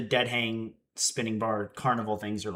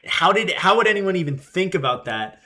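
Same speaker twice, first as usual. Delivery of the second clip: amazed employee; 5 semitones higher, 5 dB louder than usual. Retold or imitated. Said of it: "he was like".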